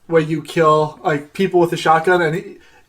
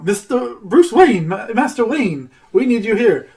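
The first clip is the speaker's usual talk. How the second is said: lightly voiced butler, higher and drawn out; a hint of a butler summoning his master, slow; butler calling his master; 5 semitones higher, slower than usual. Butler calls Bruce Wayne back, lightly voiced, slow and higher.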